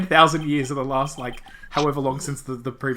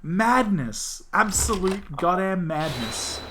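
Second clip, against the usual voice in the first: higher, anxious heroine voice; distressed heroine; 5 semitones higher, 4 dB louder than usual. Acted. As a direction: panic over his bleeding wounds. Character panics over wounds.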